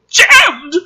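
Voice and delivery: high, loud sudden exclamation; shocked cry. Acted. Reader reacting to the dry click, shocked. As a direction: blurt the shock.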